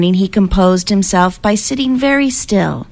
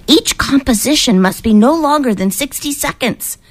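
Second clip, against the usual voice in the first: higher-pitched reading out of contest rules; reading aloud; 6 semitones higher than usual. A narrator's reading. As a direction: read the rule out with rising emphasis. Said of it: "Moshe read aloud to Quetzal".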